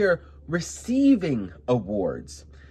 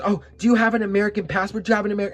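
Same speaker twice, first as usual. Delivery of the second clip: mock rude lady; 6 semitones higher, 5 dB louder, much faster than usual. Mocking rude lady demanding passport.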